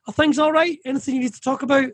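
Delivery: acting out an open, inviting question; concerned check-in. Voicing someone who stops to ask.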